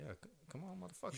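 high, thin sarcastic cheer; high mock cheer. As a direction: squeak out a mocking cheer. Mock cheer at friend leaving.

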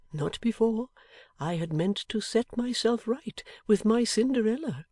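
put-on slow, measured old man's explanation; lightly voiced old man, deliberate; gentle old man. Plays Riah in story.

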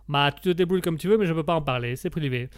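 brisk mock Italian accent; dismissive Italian accent. Italian guest refuses the host's question, dismissive Italian accent. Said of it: "comme on l'entend à mon accent".

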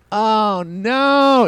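long, high wail of mock horror; retold dismay. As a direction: draw out a high, hammed-up cry of realization. Retells realizing he took the tube.

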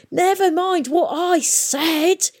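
high, slow screaming. A narrator's reading. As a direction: scream it in a rage. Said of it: "screamed Peavy".

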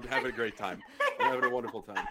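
flat, low, deadpan sarcasm; sarcastic. Real, not acted. Mets fan teased by the reporter, low deadpan sarcasm. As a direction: say you're having fun while clearly miserable.

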